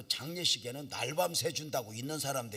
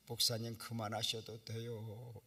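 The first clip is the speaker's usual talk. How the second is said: gentle urging; 3 semitones lower than usual. Retold or imitated. Unbelieving onlookers gently urging the pastor to stop. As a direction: gently coax him to stop.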